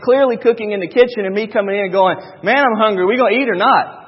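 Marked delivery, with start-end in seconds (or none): 2.5-4.0 mildly rude, impatient husband; rude demand. Acted. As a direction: act out a hungry husband demanding dinner, slightly raised. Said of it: "is that not the rudest thing I could have said?".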